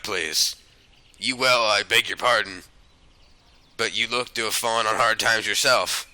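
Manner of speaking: low, soft character voice; quietly formal rogue proposing a deal; wheedling fugitive. Acted. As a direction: make a hushed, confidential pitch. Reads a fugitive's lines in game.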